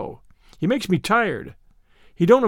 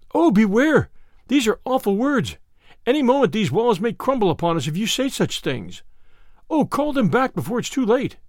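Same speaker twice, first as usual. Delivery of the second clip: terrified plea; 4 semitones higher than usual. Acted. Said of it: "like to go out of his mind with fright".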